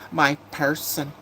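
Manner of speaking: "My person" drawn out slowly; mocking quote. Streamer quotes what new people say, slow mocking drawl. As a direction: stretch "My person" slowly, quoting it with mockery.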